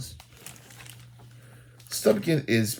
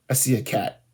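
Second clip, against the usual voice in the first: surprised discovery. Shown as a demonstration. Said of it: "You see a cat?".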